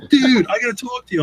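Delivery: high-pitched acted exclamation; mock pleading. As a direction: stretch it out high like a comic complaint. Acted impatient convention encounter.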